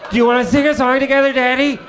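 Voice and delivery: put-on high, fast, thrilled toddler voice; excited little daughter. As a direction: gush like an overjoyed little girl. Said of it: "Daddy, are you in the bathroom".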